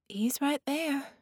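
put-on high, slow little-girl voice; small child pointing someone out, drawn out. Child shows the grown-ups her invisible friend, high little-girl voice.

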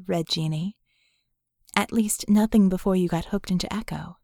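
lightly voiced woman, teasing out a secret; hint of a doubtful woman pressing; lightly voiced Vicky. Vicky challenging Red's past.

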